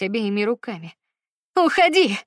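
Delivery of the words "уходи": much higher and louder scream choking on sobs; screamed, sobbing. Acted. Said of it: "закричала она, захлёбываясь рыданиями".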